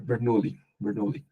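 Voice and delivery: Bernoulli said the English way, with stress on -NOU-; English pronunciation. Shown as a demonstration. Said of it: "En inglés dicen". (Bernoulli con pronunciación inglesa)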